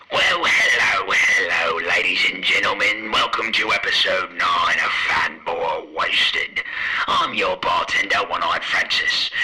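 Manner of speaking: bartender voice through a toy megaphone; tinny megaphone host welcome. Acted. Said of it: "switch off this megaphone".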